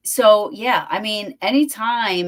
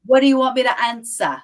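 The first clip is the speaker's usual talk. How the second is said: a mild mock of a booming voice, higher and louder; imitating loud ghost voice; 6 semitones higher, 5 dB louder than usual. Retelling the ghost voice on the recording, mildly loud. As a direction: replay the voice that talked over them, a touch raised. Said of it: "that's how loud it was".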